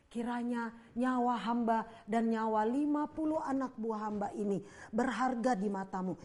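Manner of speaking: kneeling officer begs the prophet for mercy; begging for mercy. Acted. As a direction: plead for your life on your knees. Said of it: "dia mohon belas kasihan".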